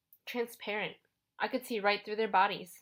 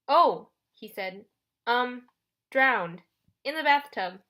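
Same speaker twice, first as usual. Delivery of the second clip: hesitant; 4 semitones higher, 8 dB louder, slower than usual. Acted. Nudged Grover improvises a lie.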